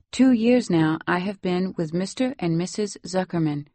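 put-on lightly Salvadoran-accented English. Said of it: "You have such a nice accent".

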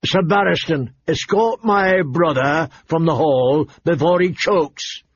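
irritated, drawn-out command; bristling king. Acted. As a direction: order him out, bristling. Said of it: "The king bristled".

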